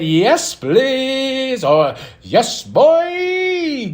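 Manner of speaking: high, loud, stretched cheer; re-enacted fan excitement; hyped reaction. Retold reaction to match announcement.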